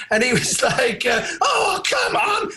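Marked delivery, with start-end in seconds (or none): 1.4-2.5 slow high mock whine; imitating a whining fan. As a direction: drag it out like a sulky fan. Fan whining after refusal.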